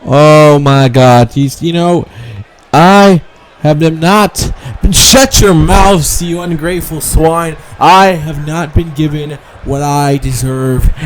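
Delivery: lightly voiced bratty heel demanding a rematch; a hint of a spoiled champion scolding the crowd; Alexa Bliss promo. Wrestler demanding her title rematch from Paige, mock indignant.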